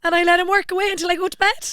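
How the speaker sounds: high, singsong mock Cork voice; Cork accent. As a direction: prompt the line in a put-on Cork accent. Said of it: "your best Cork accent".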